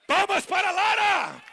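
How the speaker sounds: rally the audience for Lara; shouted showman cheer; calling out. Acted. Applause call.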